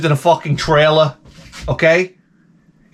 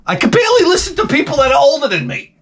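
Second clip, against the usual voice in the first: exasperated; 11 semitones higher, faster than usual. Real, not acted. Rant about taking orders peaks.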